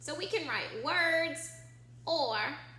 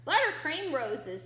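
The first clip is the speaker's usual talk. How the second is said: grocer reading the list; 2 semitones higher, 6 dB louder than usual. Acted. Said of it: "said the grocer".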